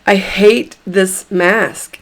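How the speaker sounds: slow emphasis on "I hate this mask"; emphatic. Shown as a demonstration. Coach leading a tapping round on mask anxiety, emphatic. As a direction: give each word of "I hate this mask" slow weight. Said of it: "I'm emphatic on purpose".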